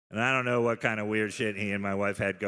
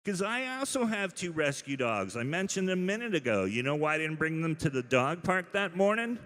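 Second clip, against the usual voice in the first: exasperated rant; 7 semitones higher than usual. Real, not acted. Ranting about rescue dogs.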